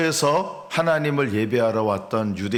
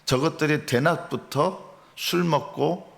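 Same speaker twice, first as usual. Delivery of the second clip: lightly acted contempt, higher and slower; mocking scorn; 5 semitones higher than usual. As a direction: imitate scoffers sneering at drunkards. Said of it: "조롱과 멸시가 섞인 말을".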